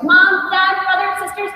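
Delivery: put-on a kid bursting in to share big news; singing out to the family, thrilled; joyful announcement. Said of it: "and she's like".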